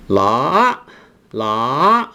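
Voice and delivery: la starting low and rising at the end; la glides up in the second tone. Shown as a demonstration. Teacher models the rising tone for English speakers. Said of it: "you start with a lower pitch".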